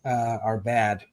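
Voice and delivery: trying not to get choked up, slowing down; getting emotional. Real, not acted. Author nearing the end of all things, getting emotional. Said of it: "I don't wanna get emotional".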